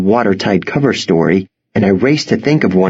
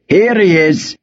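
high, mildly raised callout; calling out; 9 semitones higher than usual. A narrator's reading. Farmer points out the boy as he approaches, calling out. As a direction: call it out, pitched well up. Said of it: "he called out".

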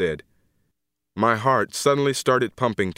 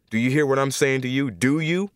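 pressing, higher and quicker, rising on the last words; insistent demand; 3 semitones higher than usual. Acted. Exasperated teacher confronting the prisoner in his cell, insistent. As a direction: press for an answer with rising urgency.

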